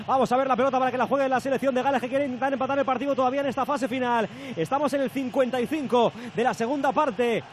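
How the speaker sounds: fast football commentary; live play-by-play. Acted. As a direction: rattle off the attack quickly.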